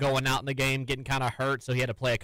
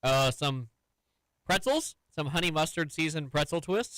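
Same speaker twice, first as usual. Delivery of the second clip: talking while eating; words around a snack; mouth full; 2 semitones higher than usual. Real, not acted. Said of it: "Are you eating".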